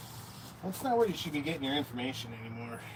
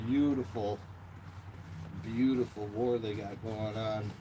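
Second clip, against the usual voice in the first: sarcastic; 3 semitones lower than usual. Real, not acted. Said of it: "I'm saying that sarcastically".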